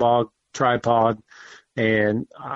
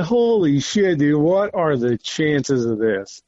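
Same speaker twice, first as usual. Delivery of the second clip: amazed exclamation; 3 semitones higher, slower than usual. Retold or imitated. Buck appears after birthday wish.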